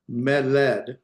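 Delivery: "meled" as me-LED; stress on second syllable. Shown as a demonstration. Teacher showing the unaccented default, "meled" stressed on LED. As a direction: lean on the end of "meled". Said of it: "because the accent's here on the first".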